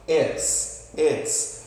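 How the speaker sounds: "Its" said short and crisp; careful pronunciation. Shown as a demonstration. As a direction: model "its" slowly and clearly. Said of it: "Cuidado com a pronúncia desse aqui".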